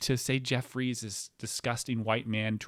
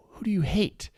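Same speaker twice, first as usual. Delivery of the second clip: urgent whispered question; 6 semitones higher, 4 dB louder than usual. Retold or imitated. Comic replaying his hushed question to her. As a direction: ask it under your breath. His own reply on phone.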